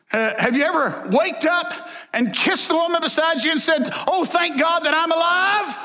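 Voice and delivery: high joking voice for the cartoon guy. Cartoon man tells about waking beside a woman, light mock voice. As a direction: set up the punchline lightly. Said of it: "the guy says".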